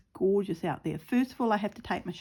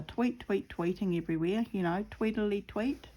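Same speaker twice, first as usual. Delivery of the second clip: birdsong imitation. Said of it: "Birds are around".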